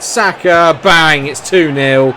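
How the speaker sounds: loud, high "bang!" as it goes in; excited shout. Real, not acted. Gamer celebrating a goal for his team, excited shout.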